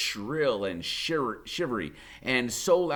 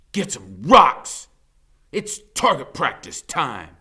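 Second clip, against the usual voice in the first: bully's shout; 3 semitones higher, 9 dB louder than usual. Acted. Bully Blade orders his gang.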